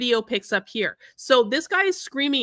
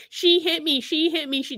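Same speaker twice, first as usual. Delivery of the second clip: higher-pitched mocking complaint; quick, derisive imitation; mock accusation; 4 semitones higher than usual. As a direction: mimic his repeated accusation. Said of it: "running around trying to say".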